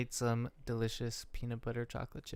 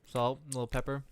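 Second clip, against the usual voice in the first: talking while chewing; wet mouth clicks. Real, not acted. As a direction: mouth noises from eating. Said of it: "Sorry for all the mouth noises".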